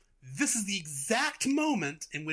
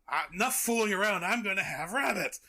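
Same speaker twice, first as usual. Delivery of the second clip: raised, fed-up cartoon dog; mock impatience; 4 semitones higher, 3 dB louder than usual. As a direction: cut in with hammed-up exasperation. Acts the dog losing patience.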